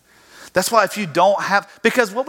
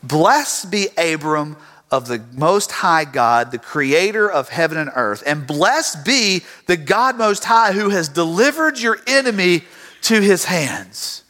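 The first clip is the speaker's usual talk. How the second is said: solemn blessing; 2 semitones lower, slower than usual. Acted. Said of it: "Melchizedek offers a blessing".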